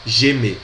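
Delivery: Gemer, zheh-MEH with no r; French pronunciation. Shown as a demonstration. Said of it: "Essa é a pronúncia".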